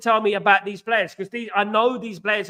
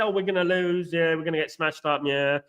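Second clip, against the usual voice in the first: gloomy; 3 semitones lower than usual. Retold or imitated. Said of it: "if I did just said".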